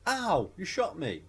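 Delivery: slow, high pained complaint; mock pained cry. Woman to her shooter, slow mock pain. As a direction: draw out the pain. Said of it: "she goes".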